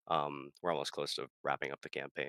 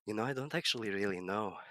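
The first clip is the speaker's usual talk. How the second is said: lightly voiced scholar, musing; a thoughtful Erudite pondering aloud; character voice; 4 semitones higher than usual. Player voicing his musing character. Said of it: "I love this character".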